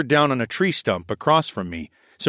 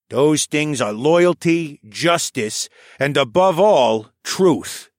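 put-on raised, lively old scholar voice; old koala elder voice; 5 semitones higher, 5 dB louder, slower than usual. A narrator's reading. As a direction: voice the old archivist, a touch higher. Tovish declares.

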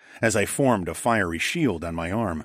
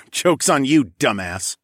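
mocking chuckle into the taunt; chuckle, then rub it in; chuckling; 5 semitones higher, 4 dB louder than usual. A narrator's reading. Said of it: "I chuckled".

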